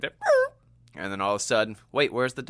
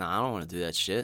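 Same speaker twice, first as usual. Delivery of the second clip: fast, soft lightly voiced refusal; reluctant boyfriend; 4 semitones lower, 6 dB quieter, faster than usual. Mike refusing his girlfriend, fast and soft. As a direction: brush it off. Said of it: "he's like".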